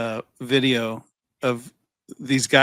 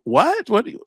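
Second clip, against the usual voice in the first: much higher startled what; mock surprise; 10 semitones higher than usual. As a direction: play the caught-out robot. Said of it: "they go".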